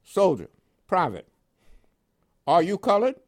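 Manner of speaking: a startled officer checking the paper; incredulous question. Retold or imitated. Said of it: "he says".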